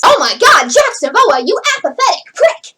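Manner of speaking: half-committed acted line read; stilted, word-by-word line delivery; not fully in character. Shown as a demonstration. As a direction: recite the insult without real feeling behind it. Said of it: "like the second version of that".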